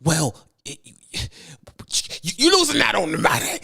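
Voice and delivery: butter up the driver like a pushy dispatcher; overly friendly dispatcher. Shown as a demonstration. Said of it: "this is how it sounds".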